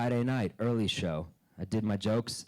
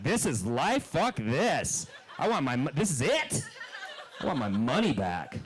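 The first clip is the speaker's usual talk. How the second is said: put-on disgruntled inner child; 3 semitones higher than usual. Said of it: "the child inside of you should have been like".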